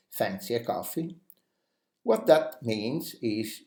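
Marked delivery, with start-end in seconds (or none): 0.1-1.2 gentle rise on "coffee", softer; softer repeat. Shown as a demonstration. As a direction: offer it lightly. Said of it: "For example".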